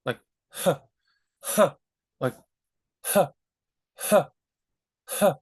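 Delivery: short breathy huh puffs; puffed breath. Shown as a demonstration. Teacher shows the breath out with huh. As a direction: push air out in little huhs. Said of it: "we're breathing out".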